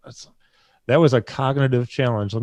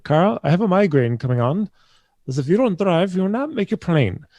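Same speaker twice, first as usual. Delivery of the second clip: higher, lightly voiced woman driver; lady driver; 7 semitones higher, 3 dB louder than usual. Lady driver with migraine to Carl, higher-pitched mild urgency. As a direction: imitate a driver warning her passenger. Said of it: "the lady who was transporting me".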